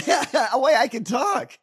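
high, loud cartoon-dog boast through laughter; laughing, hammed-up character brag; mock Goofy gloating. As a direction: shout it like a gloating talking dog. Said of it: "does Goofy look at Pluto like".

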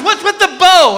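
high-pitched mock interrogation; exasperated wife. Wife questioning husband's red bow, exasperated. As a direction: demand an answer as the fed-up wife.

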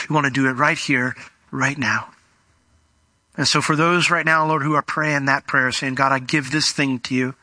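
earnest, measured prayer voice; closing prayer. Acted. Pastor praying over listeners to surrender, earnest prayer.

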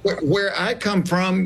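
a light laugh through the words; laughing retort. Retold or imitated. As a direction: laugh while you talk back. Retold comeback, laughing.

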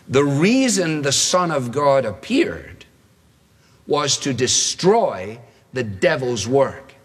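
slow, deliberate reading of the verse; slow scripture reading. Shown as a demonstration. Preacher reads the key verse slowly to the congregation. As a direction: read the verse slowly and solemnly. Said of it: "Now here comes our quote".

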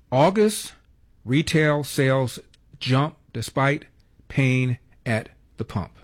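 slow, word-by-word headline read with pauses. Shown as a demonstration. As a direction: spell out each word slowly like a headline. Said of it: "Sounds like a rap song".

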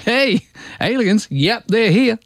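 breezy imitation of Musk; Elon Musk impression. Host imagines Musk announcing aliens on telly, mock voice. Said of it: "He goes".

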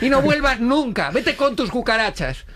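hammed-up kicking her out; mock outrage. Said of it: "Y yo".

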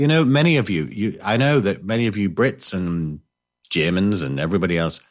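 ordinary talk

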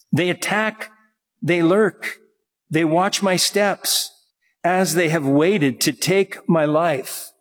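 slow, measured psalm reading; scripture reading. Real, not acted. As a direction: read the verse out solemnly, phrase by phrase. Reads the psalm aloud.

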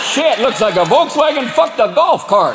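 hammed-up small-town Southerner, pitched high; high-pitched mocking yokel voice; Southern gas station local. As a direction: holler to a buddy like a rural Southerner. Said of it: "especially in the South".

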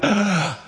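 sharp mock gasp of alarm; startled gasp. Seeing an estranged relative at the airport, mock gasp. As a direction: gasp as if spotting them. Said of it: "you just realize".

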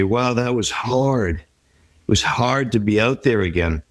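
heavy sigh. Retold or imitated. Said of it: "with a heavy sigh".

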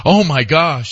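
exaggerated pearl-clutching gasp of words; mock shock. Mocking today's sensitivities, mock shock. Mocking oversensitive reaction to swearing.

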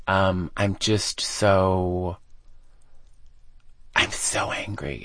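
slow, fading, choked-up admission; quietly upset. Real, not acted. Author reliving childhood on air, quiet hurt. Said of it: "I'm angry".

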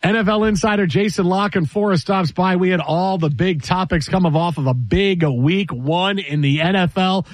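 punchy sports radio announcer read; radio show tease. Real, not acted. Host sending listeners to the break, polished radio tease.

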